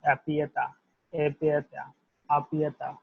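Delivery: apiata said as "a-pya-ta"; French à plus tard drill. Shown as a demonstration. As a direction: model it for learners. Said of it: "will be delivered as".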